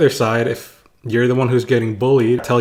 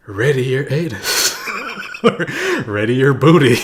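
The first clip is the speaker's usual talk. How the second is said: a hint of a bossy principal; hammed-up command to get ready; mock principal; 2 semitones higher than usual. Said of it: "So the principal was like".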